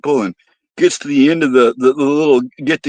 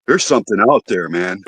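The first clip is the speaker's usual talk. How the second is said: spooked guy; 5 semitones lower than usual. Retold or imitated. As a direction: hush it down like a secret. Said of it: "He says".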